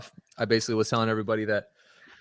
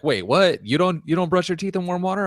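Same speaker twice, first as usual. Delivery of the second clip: shocked; 7 semitones higher than usual. Retold or imitated. Retelling friend's shocked reaction.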